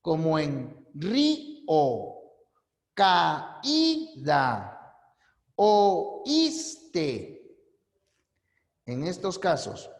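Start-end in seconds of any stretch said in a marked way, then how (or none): 0.9-7.3 río, caída, oíste said slowly with the accented í leaning harder; teacher slowing to show the stressed í; stressed closed vowel. Shown as a demonstration. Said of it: "mayor fuerza de voz recae en la vocal cerrada".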